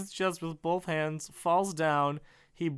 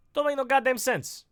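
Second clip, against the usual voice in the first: exasperated; 9 semitones higher, 4 dB louder, faster than usual. Real, not acted. Frustrated outburst reading script.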